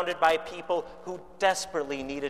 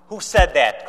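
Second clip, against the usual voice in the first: a louder, sharp retold demand; mock bark; 6 dB louder than usual. Khrushchev demands who spoke, a lightly acted louder bark. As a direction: bark it at the crowd, half-acted. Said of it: "Khrushchev barked".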